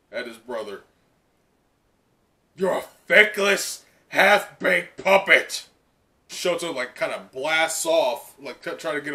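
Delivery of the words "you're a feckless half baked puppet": mild mock contempt; scornful villain. Voicing the villain Dabi.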